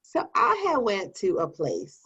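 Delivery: alter ego voice. Acted. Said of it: "Why do you now sound like that person?".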